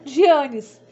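loud "Gianes", zhee-AH-nees; mispronounced jeans. Retold or imitated. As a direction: quote her slip "Gianes" in three syllables.

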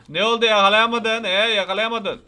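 loud gloating tease; taunting. Real, not acted. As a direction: rub it in the chaser's face. Taunting teacher who failed to catch. (alaycı, kışkırtıcı)

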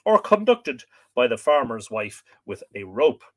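measured, projected reading voice; book reading aloud. Acted. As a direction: read the old text out to listeners with clear phrasing. Reads the book aloud to viewers.

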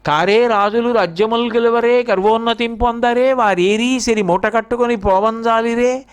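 verse recitation. Acted. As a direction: recite it as metrical Telugu verse. (పద్యం చదువుతున్నట్టు, సాగదీసిన స్వరంతో)

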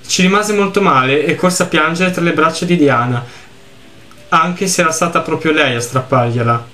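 lettura misurata di un racconto triste; narrazione letta. A narrator's reading. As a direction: leggi la storia con tono composto. Legge ad alta voce il testo del gioco. (narrazione composta, da racconto)

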